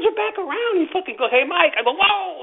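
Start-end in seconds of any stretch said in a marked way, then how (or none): 1.3-1.8 high, louder "Hey, Mike" call. Retold or imitated. An anti-crime cop catching Mike pocketing cash, loud call. 1.9-2.4 high startled whoa. Retold or imitated. Mike caught pocketing money, high startled whoa.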